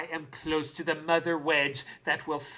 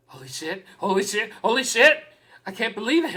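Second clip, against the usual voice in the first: stunned disbelief; faster than usual. Real, not acted. Shock that she came.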